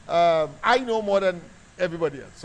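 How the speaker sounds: mock boast. Repeats boast louder.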